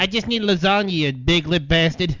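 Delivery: mock Jewish accent, slow on "big lip bastard". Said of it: "that's a Jewish accent, not Italian".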